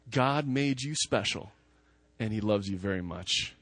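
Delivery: speaking it plainly and sincerely to the congregation; sincere affirmation. Shown as a demonstration. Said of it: "You can take everything else away".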